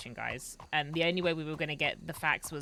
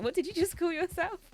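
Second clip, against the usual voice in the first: incredulous; 11 semitones higher than usual. Retold or imitated. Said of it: "there were so many times I was like".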